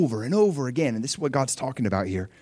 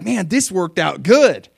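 louder, slow, pleased exclamation; pleased victors; 4 semitones higher, 7 dB louder, slower than usual. Retold or imitated. Army coming home with spoils, pleased. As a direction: savor the win as a happy soldier. Retelling the happy army's reaction.

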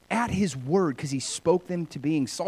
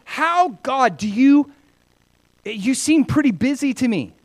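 higher, mock-baffled challenge; doubtful questioning; 8 semitones higher, 5 dB louder than usual. Believer asks busy God how he manages, doubtful. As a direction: question it in a raised, puzzled pitch. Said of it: "I'm like".

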